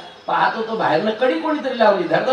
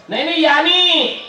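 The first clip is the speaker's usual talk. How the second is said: flustered protest; 7 semitones higher, 3 dB louder than usual. Acted. Man protests to Maiya.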